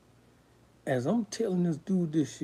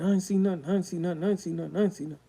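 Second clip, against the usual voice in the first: imitated higher-pitched repetitive denial; repeated denial; 5 semitones higher, faster than usual. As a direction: reel off the same denial over and over. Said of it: "started repeating".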